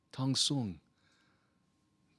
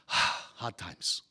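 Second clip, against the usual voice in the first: weary sigh; 5 semitones lower than usual. Real, not acted. Sighing at hardship.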